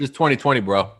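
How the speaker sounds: talking while chewing; mouth full. Real, not acted. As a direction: speak through a mouthful of pasta. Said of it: "What are you eating?".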